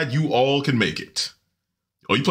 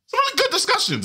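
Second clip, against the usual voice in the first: laughing; faster than usual. Real, not acted. Laughing mid-sentence.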